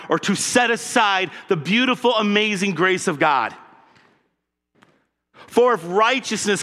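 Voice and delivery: rising, insistent preaching; fervent, building conviction; impassioned. Shown as a demonstration. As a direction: say it like Paul fighting for it. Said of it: "in the voice of this context".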